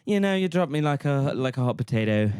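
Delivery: put-on high transatlantic accent, half Australian. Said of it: "kind of American".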